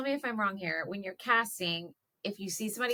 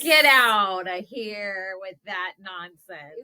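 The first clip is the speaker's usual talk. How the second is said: slow, louder incredulous protest; disbelief; 6 dB louder, much slower than usual. Real, not acted. Co-host hearing Jack Nicholson was considered, slow incredulous protest. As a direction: drag it out in disbelief.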